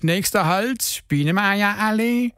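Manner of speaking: slow, drawn-out stop announcement; mock bus driver's announcement. Shown as a demonstration. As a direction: call out the next stop slowly. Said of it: "mal mit einer Durchsage".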